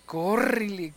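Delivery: córrele said quickly at normal loudness; first córrele, still held back; mild fright. Retold or imitated. Frightened boy starting to flee, mild worried call. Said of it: "le gritaban eso y dice".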